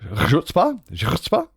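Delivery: tentative, rising Chutzpah from the throat; guttural throat sound. Shown as a demonstration. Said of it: "Is the sound you were doing?".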